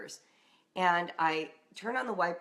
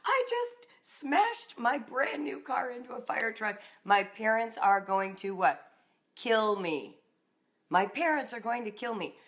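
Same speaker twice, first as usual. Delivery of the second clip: frantic; 4 semitones higher than usual. Retold or imitated. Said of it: "I remember distinctly saying to them".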